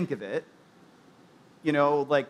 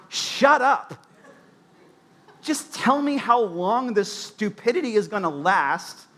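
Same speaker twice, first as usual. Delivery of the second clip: exasperated retort; 4 semitones higher than usual. Retold or imitated.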